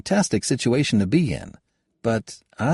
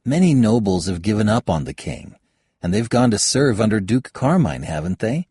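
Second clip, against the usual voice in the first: higher voiced young woman, pressing her point; young woman arguing; 9 semitones higher, 4 dB louder than usual. Kayada lectures Halbert on the nobles, higher and firmer. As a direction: lay out the case sharply, rising as she goes.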